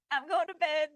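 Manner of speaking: high, loud cartoon mimicry with laughter; cute cartoon voice. Co-host echoing crypto girl going to bed, laughing cartoon voice. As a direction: giggle out a cutesy imitation. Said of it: "in her cute little cartoon voice".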